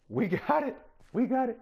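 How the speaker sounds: real excitement, cheering the working farm; excited cheer. Real, not acted. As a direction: celebrate the win out loud. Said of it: "I'm excited".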